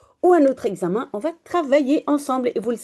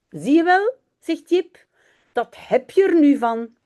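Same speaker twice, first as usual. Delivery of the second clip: Jip's higher scolding tone; scolding boy; 5 semitones higher, 4 dB louder than usual. Acted. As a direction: tell the dog off, told you so. (Jip gronde le chien, voix plus aiguë)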